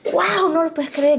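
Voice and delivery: mild retold awe; amazed. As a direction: gush with disbelief. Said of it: "Y yo así de".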